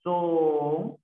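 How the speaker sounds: "Son" held long on its own; drawn-out "Son", then stop; syllable by syllable. Shown as a demonstration. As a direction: sound out "Son" as a separate syllable. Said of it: "Cómo sería sonreír".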